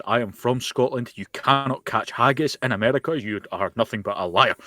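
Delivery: a hint of a furious Scottish patriot; angry Scotsman. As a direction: play up a lightly voiced outraged Scot berating the chef. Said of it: "Just played up the angry Scotsman part".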